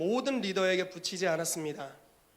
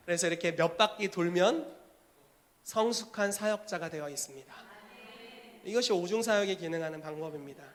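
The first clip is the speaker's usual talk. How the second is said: ordinary delivery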